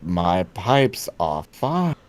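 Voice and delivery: put-on slow, low Dracula accent. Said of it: "do you think he still has the accent?".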